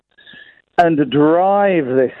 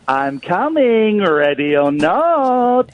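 evil voice; 2 semitones higher, much slower than usual. Shown as a demonstration. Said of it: "say in your most evil voice".

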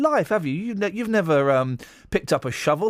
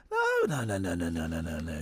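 squealing no; 11 semitones lower, 7 dB quieter than usual. Retold or imitated. High squeal refusal.

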